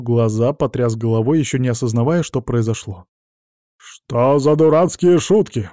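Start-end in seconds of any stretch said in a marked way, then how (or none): 3.8-5.7 growled. A narrator's reading. Tied-up colonel to Amelia, slow angry growl. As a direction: snarl it out slowly, furious at the joke. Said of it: "прорычал он".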